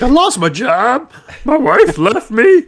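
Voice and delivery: very high, slow, strained whine; Bobcat Goldthwait impression. Fired man complains to his boss in a whine. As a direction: stretch it out in a cracking whine. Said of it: "That's exactly how that motherfucker sounds".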